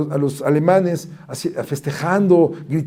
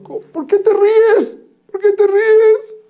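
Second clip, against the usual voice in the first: high, slow, baffled question; incredulous; 5 dB louder, much slower than usual. Acted. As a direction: stretch it out high in disbelief. Sages ask why Akiva laughs.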